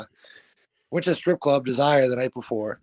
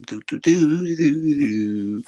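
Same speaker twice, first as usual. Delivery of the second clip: yacht club dad; 4 dB louder, much slower than usual. Retold or imitated. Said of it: "he's like a yacht club going".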